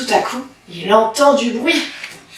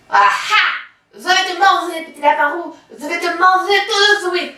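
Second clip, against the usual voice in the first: wolf threat; 5 semitones higher than usual. Acted. Wolf voiced by narrator.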